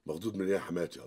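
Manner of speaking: indignant retort. Acted. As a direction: push back hard at her. Husband snaps at mother-in-law.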